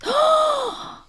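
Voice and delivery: big imitated collective gasp; high, theatrical intake of breath; shocked audience gasp. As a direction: gasp like a horrified crowd. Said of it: "the whole audience goes".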